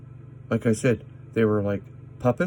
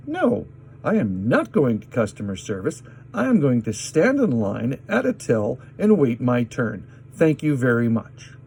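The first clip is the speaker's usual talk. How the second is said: tag; 2 semitones higher, 3 dB louder than usual. Retold or imitated. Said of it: "So I'm still yelling".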